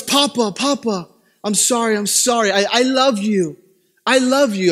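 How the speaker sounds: lightly voiced child begging papa for forgiveness; pleading son. Son apologizing to papa after hitting his brother, mock pleading. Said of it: "he can be very manipulative".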